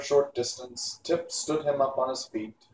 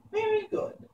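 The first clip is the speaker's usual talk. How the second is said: put-on angry old witch; 4 dB quieter than usual. A narrator's reading. Mombi threatens the boy who tried to scare her.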